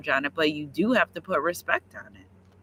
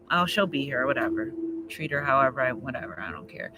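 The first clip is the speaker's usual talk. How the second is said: dismissive partner; 5 semitones lower, 4 dB quieter than usual. Retold or imitated.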